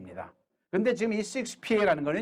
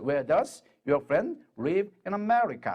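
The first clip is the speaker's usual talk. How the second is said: very slow, each word apart; slow teacher model sentence; slow model reading; much slower than usual. Shown as a demonstration. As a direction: read it out slowly for students. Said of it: "하고 말하면 돼요".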